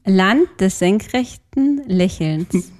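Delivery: slow, careful, hesitant read-out; forcing the phrase out slowly. Shown as a demonstration. Dared by the host to say it, slow and hesitant. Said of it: "kriegst du's über die Lippen?".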